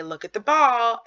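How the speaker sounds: put-on bright baby talk. Shown as a demonstration. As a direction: draw the baby's eyes to the ball. Parent directing baby's gaze.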